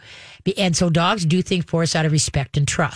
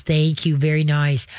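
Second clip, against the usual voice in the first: calm praise; 3 semitones lower than usual. Shown as a demonstration. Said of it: "as soon as it stops".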